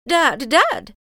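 high, loud call; excited cry. A narrator's reading. Old woman runs in to her husband, crying out. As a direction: call out urgently for him. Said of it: "she cried".

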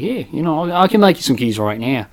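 soft, casual fake Australian; Australian accent. Worker keeps fooling the customer, soft Australian accent. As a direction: offer help in a put-on Australian accent. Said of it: "haven't done an Australian accent".

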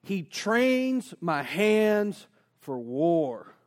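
scripture reading. Shown as a demonstration. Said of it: "I love this verse, but it says".

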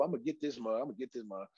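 low, quiet vow of revenge; muttering to himself. Retold or imitated. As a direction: mutter it under your breath, plotting.

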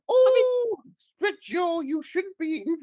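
piercingly high falsetto character; Gillian McKeith. Acted. Nutritionist scolding man about eating, high wobbly-accent impression. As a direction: open on a loud high "Oh". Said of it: "the accent's gone a bit".

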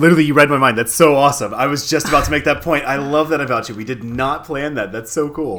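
high, loud, delighted rush; excited amazement. Real, not acted. Co-host just made the point they planned to make, excited amazement.

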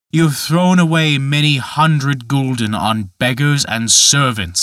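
a lightly voiced giant gently mocking; understated tempter, reasoning with the boy; Dutch Michael, coaxing. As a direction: coax him like a sly tempter.

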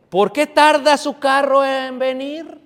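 slow, loud scripture reading rising into a high call; crying out. Acted. Preacher voices the mother at the window, slow loud crying out. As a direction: call out the verse, drawn out. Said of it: "a voces dice".

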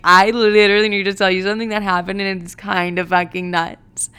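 goofy build-up to bad news; silly goofy mood. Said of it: "This is exactly how I'm talking".

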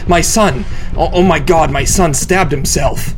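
high, loud, breathless panic; mother panics on the phone to 911; panicked crying. A narrator's reading. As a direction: gasp out the words in terror. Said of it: "she cried, her words fragmented by short bursts of breath".

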